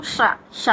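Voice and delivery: "ష" with tongue curled to the palate; touch the palate as you say "ష"; retroflex sha. Shown as a demonstration. Teacher shows tongue placement, retroflex "ష". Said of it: "నాలుకని పైన అంగటికి తగిలించి".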